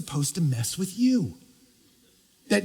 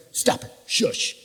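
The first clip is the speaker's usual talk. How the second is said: hushing whisper; 3 semitones lower, slower than usual. Retold or imitated. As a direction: hush the weather like a child. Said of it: "He stands up and says to weather".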